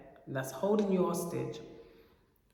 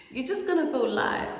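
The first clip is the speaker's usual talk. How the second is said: laughing; 7 semitones higher than usual. Real, not acted. Laughing through line.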